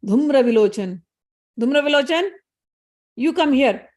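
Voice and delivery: loud call, rising on the name; angry summons. Acted. Angry king Shumbha calls Dhumra Vilochan, loud summons. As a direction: bark for your general to come.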